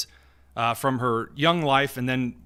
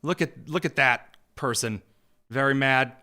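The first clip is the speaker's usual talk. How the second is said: mocking; 3 semitones lower than usual. Mocking protester on video.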